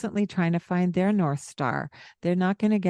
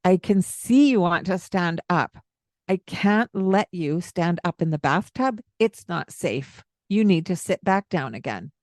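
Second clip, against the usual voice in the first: firm, slightly raised voice; stern. Shown as a demonstration. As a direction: set the limit sternly. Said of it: "It's okay to sound stern".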